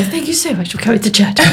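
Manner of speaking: quick, laughing posh voice. Retold or imitated. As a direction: rattle off the posh thank-you. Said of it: "I put the posh voice on".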